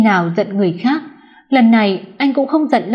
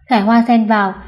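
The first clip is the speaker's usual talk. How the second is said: usual speaking voice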